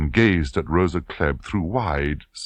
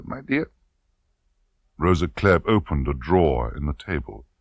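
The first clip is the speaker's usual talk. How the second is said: insinuating colonel; 6 semitones higher than usual. Acted. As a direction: lean in on the question. Klebb continues.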